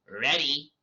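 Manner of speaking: little fairy piping up; lightly voiced fairy. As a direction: chirp it like a tiny fairy. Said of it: "You guys like my fairy voice?".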